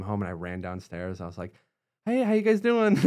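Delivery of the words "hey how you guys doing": much higher, louder, tense fake-casual greeting; all nervous. To his parents coming home, a nervous cheery greeting. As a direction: cover your nerves with a bright cheery hello. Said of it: "all nervous".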